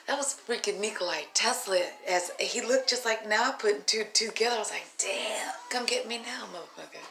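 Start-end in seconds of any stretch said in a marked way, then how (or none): 5.0-7.0 soft, fading whisper; whispered plea. Retold or imitated. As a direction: beg quietly to be taken. Wistful plea to Tesla.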